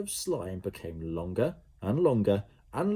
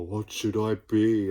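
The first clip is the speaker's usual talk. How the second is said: eager blob; 5 dB louder, slower than usual. A narrator's reading. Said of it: "asked Slime".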